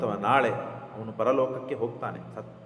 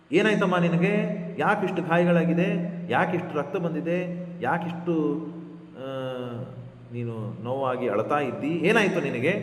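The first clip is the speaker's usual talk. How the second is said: higher, mock-innocent queen pretending concern; a hint of false sweet concern, pitched up; feigned innocence; 3 semitones higher than usual. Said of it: "ಏನೂ ಗೊತ್ತಿಲ್ಲದೆ ಇದ್ದಂತೆ ನಾಟಕ ಮಾಡಿಬಿಡ್ತಾಳೆ".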